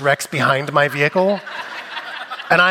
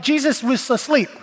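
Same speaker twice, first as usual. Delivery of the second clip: mock summary; 10 semitones higher than usual. Mock paraphrase of the gospel.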